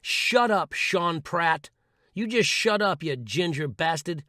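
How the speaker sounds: firm shout at the inner voice; telling off inner critic. Shown as a demonstration. Telling the inner critic to shut up, firm shout. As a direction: snap back at the critic. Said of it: "and say".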